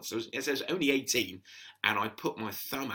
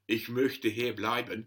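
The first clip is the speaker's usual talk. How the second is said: German phrase; slower than usual. Retold or imitated. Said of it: "and say".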